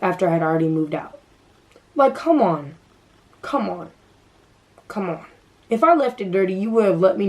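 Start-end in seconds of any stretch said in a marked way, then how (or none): 1.9-5.3 exasperated, fading out. Real, not acted. Vlogger fed up with roommate, fading exasperation. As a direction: let the exasperation die away.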